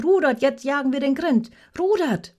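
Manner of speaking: loud, high rallying cry; enthusiastic bellow. A narrator's reading. Rognet launching the whale hunt, excited roar. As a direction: shout the crew into the chase. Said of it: "brüllte Rognet begeistert".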